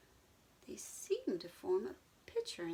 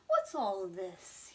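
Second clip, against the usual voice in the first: slow, louder horse voice; whinny; 5 dB louder, slower than usual. Acted. Mister Brown the horse asking the animals, slow whinny. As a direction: draw it out like a horse. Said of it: "he whinnied".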